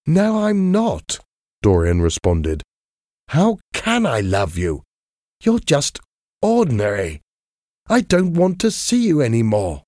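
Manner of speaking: high, rising, bitter reproach; angry Dorian. A narrator's reading. Dorian rejects Sybil after her bad show, high bitter anger.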